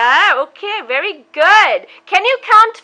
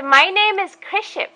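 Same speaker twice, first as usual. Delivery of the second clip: put-on model phrase for child; 3 semitones higher, 4 dB quieter than usual. Shown as a demonstration.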